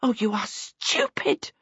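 crying out in exasperation; scolding, exasperated outburst. A narrator's reading. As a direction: cry out at someone's foolishness. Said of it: "Charmaine cried out".

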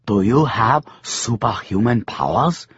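lightly voiced old crone, rising question; hint of a toothless old woman asking. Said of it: "the old woman said".

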